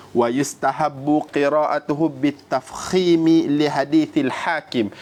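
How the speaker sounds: measured, slow Arabic text reading; reciting Arabic text. Acted. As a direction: read out the classical Arabic quotation with care.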